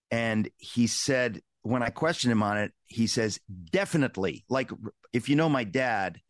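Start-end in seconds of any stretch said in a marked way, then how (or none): 3.7-4.4 DEFINITELY said higher, with firm emphasis; emphatic. Retold or imitated. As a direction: quote dad saying DEFINITELY emphatically. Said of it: "he says it with an emphatic quality".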